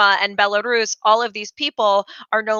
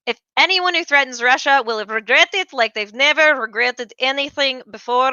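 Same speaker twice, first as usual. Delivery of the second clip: a light, hammed-up Russian accent; half-joking Russian-accented menace; 3 semitones higher than usual. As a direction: do a playful Russian accent for Putin's threat. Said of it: "That's my Russian accent".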